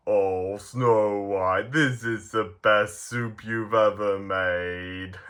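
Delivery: slow, understated lovestruck shyness; shy Bashful. Acted. Bashful shyly compliments Snow White on soup, shy. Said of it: "shyly going".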